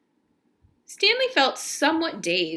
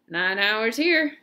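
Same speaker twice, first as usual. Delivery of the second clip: slow, tired grumble a little louder; grumbling; 2 semitones higher, 3 dB louder, slower than usual. Acted. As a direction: drag the words out like a weary complaint. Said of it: "the guard grumbled".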